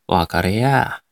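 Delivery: Nagoya dialect answer; 名古屋弁. Shown as a demonstration. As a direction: answer in drawn-out Nagoya intonation. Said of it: "名古屋弁っぽい言葉を喋ってみて". (名古屋弁っぽく答える)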